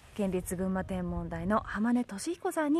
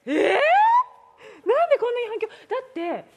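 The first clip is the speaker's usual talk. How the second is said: echoing voice; 6 semitones higher, 5 dB louder than usual. Real, not acted.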